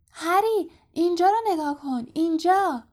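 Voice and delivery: high-pitched eager shout; Colin. A narrator's reading. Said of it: "کالین با صدای زیرش فریاد زد". (فریاد با صدای زیر)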